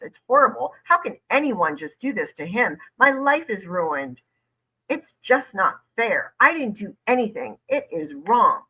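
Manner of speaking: hammed-up aggrieved complaint; mock indignant self-pity; mock victim. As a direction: imitate a man protesting how wronged he is. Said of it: "make sure that the detective knows that he's a victim".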